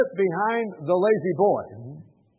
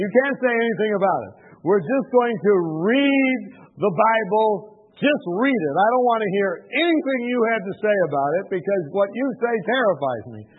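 raised, emphatic imitation of a demand; insistent terms; 5 semitones higher, 6 dB louder than usual. Man sets rules for visitor's Bible reading, loud insistence. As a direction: lay down the rules, high and loud.

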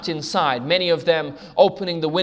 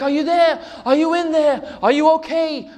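raised, higher calling out; acted call into the building; 7 semitones higher, 3 dB louder than usual. Woman calling for the fireman, raised voice. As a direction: call out anxiously into the smoke. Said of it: "She's screaming".

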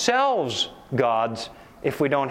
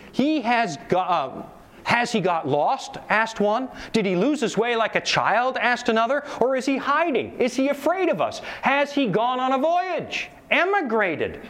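higher, taunting questions; mocking crowd; 6 semitones higher than usual. Townspeople mocking the madman, taunting. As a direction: jeer at him like a laughing crowd.

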